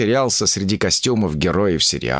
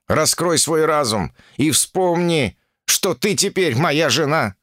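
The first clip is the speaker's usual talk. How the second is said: irritated; 6 semitones higher, slower than usual. Acted. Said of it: "раздражённо напомнил царь обезьян".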